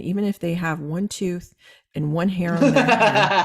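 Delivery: laughing through the joke; chuckling while she teases. Real, not acted. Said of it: "The way you said that".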